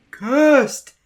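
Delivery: high, loud cry of the word Cursed; ominous shout. Acted. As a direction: burst out with the warning. Warning skit, sudden outburst.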